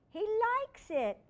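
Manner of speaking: high, slow surprised delight. Acted. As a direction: marvel at it, slowly.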